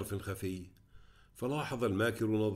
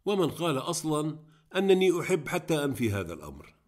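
higher, incredulous retort; astonished protest; 5 semitones higher, 4 dB louder than usual. A narrator's reading. Student denies to his friend being in love, incredulous. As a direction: push back in surprise at the assumption. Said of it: "وقد زادت دهشته".

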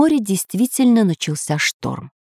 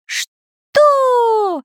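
did not hear. Acted. Inventor didn't hear.

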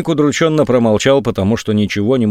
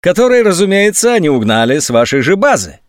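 unshakable certainty; 8 semitones higher, 3 dB louder than usual. A narrator's reading. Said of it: "с несокрушимой уверенностью".

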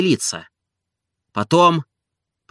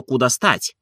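ordinary delivery

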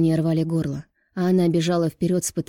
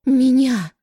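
much higher, much louder single cry; choked shout; 8 semitones higher, 8 dB louder than usual. A narrator's reading. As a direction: burst out the word. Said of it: "Даша задыхалась от слёз".

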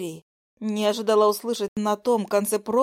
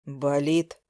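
low man; 7 semitones lower than usual. Acted. Nikita asks.

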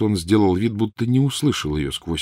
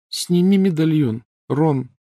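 higher, tense plea; thin pleading voice; 9 semitones higher, slower than usual. A narrator's reading. Hermione begging Ron, thin pleading voice. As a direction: beg him, voice gone thin. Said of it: "непривычно тонким голосом попросила".

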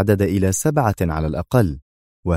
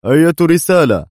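raised, much louder angry snap; 8 semitones higher, 7 dB louder than usual. A narrator's reading. Dwight turns back to Adham, angrily demanding the message. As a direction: turn back and bark the question. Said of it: "قائلا في غضب".

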